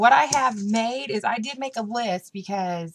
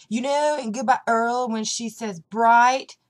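higher, lightly imitated excited kid; quoted young sister; 3 semitones higher, 7 dB louder, slower than usual. Sister asking about a song lyric, lightly imitated child. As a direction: lift it a little like a child explaining. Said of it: "she said".

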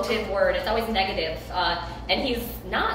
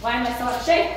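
out of breath; 4 dB louder, much faster than usual. Real, not acted. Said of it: "I can't even breathe".

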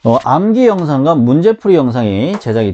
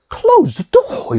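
much higher, slow and drawn out with strong emotion; with feeling; much slower than usual. Shown as a demonstration. Teacher shows students an emotional command, said high and drawn out. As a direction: stretch it out, make it an urgent exclamation. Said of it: "느낌을 넣어서 얘기할 때".

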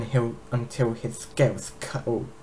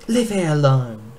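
louder, higher strained plea; choked out; 4 semitones higher, 7 dB louder than usual. Acted. Captive dragon begs her to spare the egg, choked. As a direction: force it out through a tight throat. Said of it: "Hitherto choked out".

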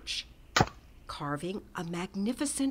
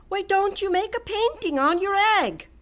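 higher, louder friendly suggestion; encouraging painter; 12 semitones higher, 9 dB louder than usual. A narrator's reading. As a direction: coax him kindly. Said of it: "Hans said".

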